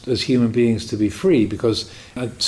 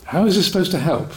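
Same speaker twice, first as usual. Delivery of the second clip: mildly exasperated, pitched up; higher-pitched protest of a fed-up beginner; frustrated; 6 semitones higher than usual. Acted. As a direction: complain in mock frustration. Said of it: "this is frustrating".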